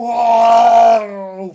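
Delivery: long shouted "Vaaay!"; loud wow. Retold or imitated. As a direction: belt out an amazed wow. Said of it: "falan yap".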